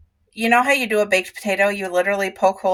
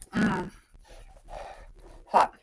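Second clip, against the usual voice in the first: chewing a hot bite; mouth full of hot food; 8 dB quieter than usual. Real, not acted. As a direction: mumble through hot food.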